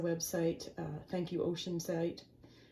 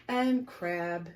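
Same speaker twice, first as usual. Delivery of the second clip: drawn out, word by word; slow and deliberate; slow punchline; much slower than usual. Acted. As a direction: savor each word slowly.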